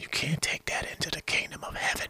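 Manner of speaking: very quiet, hushed, breathy whisper. Mid-talk, the speaker drops into a line that is whispered. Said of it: "I shouldn't whisper that".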